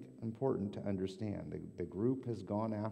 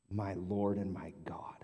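breathy, voiceless awe; whispered confession. Acted. Thomas confessing to Jesus in a whisper.

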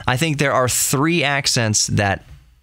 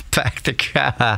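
slow Boston accent with dropped Rs; 2 semitones higher, slower than usual. Shown as a demonstration. Host repeating his regional example, drawn-out Boston accent. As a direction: draw out a mock Boston accent. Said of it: "Boston accent".

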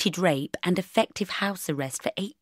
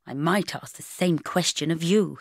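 icy. Acted. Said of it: "he said icily".

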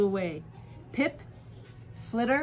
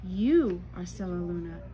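tender whisper; 2 semitones lower than usual. Acted. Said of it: "she whispered".

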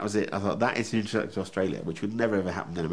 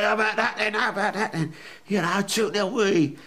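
much higher, louder, gleeful cheer; mock fan cheer; 12 semitones higher, 4 dB louder than usual. Fan lifting his baby after a goal, gleeful cheering. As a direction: lift the baby up and crow about the goal.

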